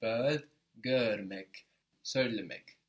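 slow drill, "bird" vowel held into görmek and söylemek; drawn-out bird, görmek, söylemek with one shared rounded vowel sound; bird vowel carried over. Shown as a demonstration. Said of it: "We did the same with görmek".

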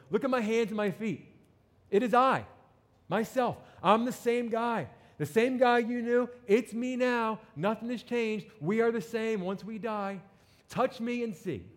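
high, insistent proclamation; emphatic reassurance. Acted. Risen Jesus convincing his disciples, high and emphatic. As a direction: press each short phrase, pitched well up.

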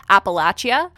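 Appalachia with a short middle a and ch; Appalachia, ap-uh-LATCH-ee-uh; first pronunciation. Shown as a demonstration. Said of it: "heard this word said several different ways".

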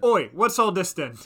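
loud, high mock Cockney; hammed-up Cockney copper's challenge; bad Cockney accent. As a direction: bellow it in a badly faked Cockney. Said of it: "in a bad Cockney accent".

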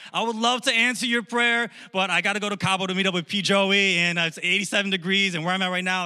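mock-sorry holiday excuse; Baal making excuses. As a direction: play a god phoning in excuses. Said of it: "Baal was like".

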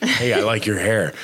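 slow, lingering creepy compliment; hammed-up creepy guy flattering a stranger; mock creepy compliment. Man complimenting a stranger's hair, slow mock creepy. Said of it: "it can come off creepy".

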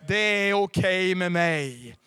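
slow, booming declaration; loud proclamation. Acted. Pastor proclaiming to the congregation, slow and booming. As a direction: proclaim it for all to hear.

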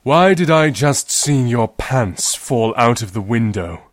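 slow puzzled dad. Acted. Dad puzzled by falling pants, slow. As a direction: ask with baffled slowness.

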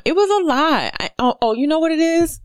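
excited aha, pitched high; sudden realization. Real, not acted. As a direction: voice jumps way up in realization.

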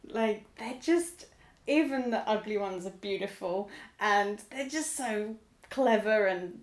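slow, softening wonder at people; dreamy awe. Retold or imitated. Gushing about humans on the bus.

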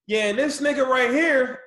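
mock angry accusation. He's like.

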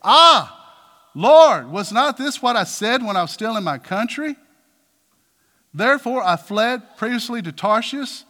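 loud, exasperated complaint to God; indignant outcry, loud at the start; angry prophet. Acted. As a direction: burst out at the Lord, then press the grievance. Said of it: "He became angry".

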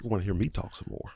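smooth, soft and tired; tired low voice. Real, not acted. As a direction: let the tiredness sit in the voice. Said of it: "Look at that smooth".

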